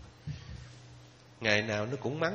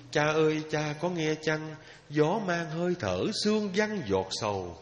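poem recitation. Acted.

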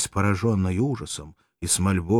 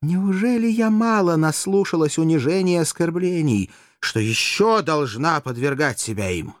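higher and louder, indignant; bitter outburst; 9 semitones higher, 5 dB louder than usual. Acted. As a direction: throw back the insult. Courtesan protests bitterly.

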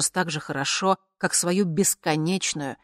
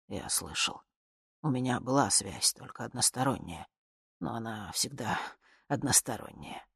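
lower, soft and downcast; subdued; 4 semitones lower, 6 dB quieter than usual. Acted. Dictator admitting to the woman, low and resigned. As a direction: say it quietly, resigned.

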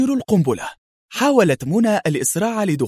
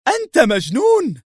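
high panicked shout; 9 semitones higher than usual. A narrator's reading. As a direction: yell it at him in disbelief. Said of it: "وصاح". (صرخة عالية مذعورة)

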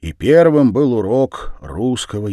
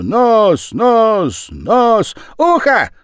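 high loud playground yell; громкий крик на всю деревню; kids yelling; 9 dB louder, much slower than usual. A narrator's reading. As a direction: shout across the whole village. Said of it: "кричал на всю деревню".

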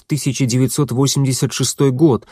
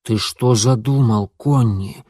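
hissed; slower than usual. Acted. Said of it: "прошипел он".

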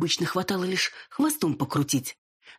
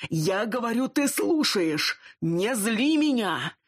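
angry; 6 semitones higher, slower than usual. Acted. Wolf chief yells at her.

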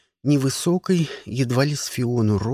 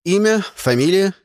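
official barking; 5 semitones higher, 4 dB louder than usual. A narrator's reading. Official questioning.

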